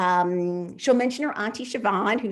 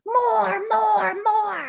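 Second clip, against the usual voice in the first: cheering shout; 14 semitones higher, 5 dB louder, much slower than usual. Acted. Crowd cheering for more dancing.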